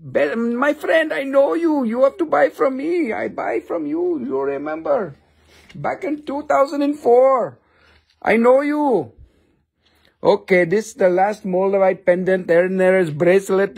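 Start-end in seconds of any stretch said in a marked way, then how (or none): 0.1-9.1 higher, coaxing seller's plea; pleading vendor. Acted. Seller coaxing an old friend to buy, higher pleading. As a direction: sweet-talk an old customer, voice lifted.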